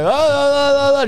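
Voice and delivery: high, loud mock wails; imitating a screaming lady. Runner mimicking a lady screaming on the corner. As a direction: wail like the odd lady under the awning. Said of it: "Just going like".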